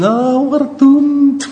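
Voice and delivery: high, slow Scottish wail; Scottish doom. Retold or imitated. Negative thinker fearing the worst, Scottish wail. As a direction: moan it like Private Fraser in a Scottish accent. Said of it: "think whatever the situation".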